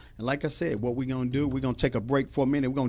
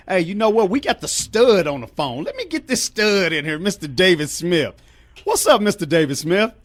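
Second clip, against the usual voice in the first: higher and louder, pumped-up announcer call; hype host intro; 6 semitones higher, 5 dB louder than usual. Real, not acted. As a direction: bring the guest in like a ring announcer. Host hypes up next guest.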